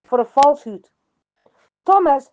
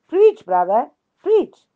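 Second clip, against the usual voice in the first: mild mock yell, urging on; retold yell; 3 semitones higher, slower than usual. One deacon spurring on the pastor, retold yelling. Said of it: "One of the deacons yelled".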